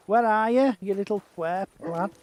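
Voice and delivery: calling out. Real, not acted. Calling for his horse.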